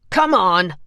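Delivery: annoyed orderly; impatient. A narrator's reading. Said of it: "the first man said".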